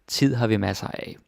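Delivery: "Tid" hit first and firmly; stress on the object. Shown as a demonstration. Teacher showing students the object stressed, "Tid" hit first and firmly. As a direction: put the weight on "Tid" at the front. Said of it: "Stress on the object".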